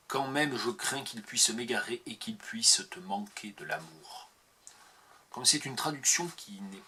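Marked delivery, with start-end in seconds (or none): 0.1-4.3 whispered, fading out; hushed whisper to end the poem. Acted. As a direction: let the last verse die away in a whisper.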